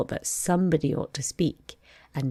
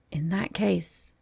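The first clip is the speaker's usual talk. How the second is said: solemn; 3 semitones higher, slower than usual. Acted. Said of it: "the dodo said solemnly".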